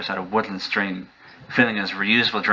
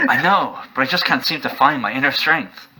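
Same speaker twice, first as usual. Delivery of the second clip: higher, pleading and frustrated; 5 semitones higher than usual. Acted. Warrior admitting to the stranger he is stuck, frustrated. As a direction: let the frustration leak out. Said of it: "letting his frustration show".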